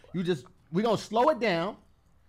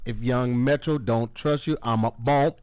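producer tag; 5 semitones lower, 4 dB louder than usual. Retold or imitated. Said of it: "a little producer tag".

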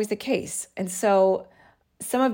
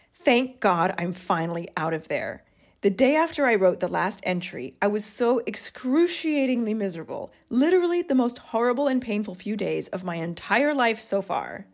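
put-on reading an old diary entry with feeling; a touch dramatic reading of her own old journal; journal read aloud.

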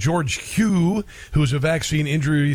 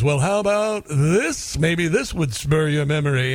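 Starsky offering money. Retold or imitated. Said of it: "Starsky goes".

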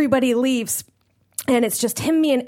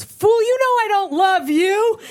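cold rejection; 9 semitones higher, 3 dB louder, slower than usual. Retold or imitated. Girlfriend rejects the proposal.

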